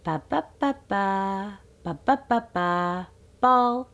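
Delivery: sing-song babble toward the word ball; modelling babble for baby. Shown as a demonstration. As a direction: offer the sounds gently to a baby. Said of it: "You can start saying".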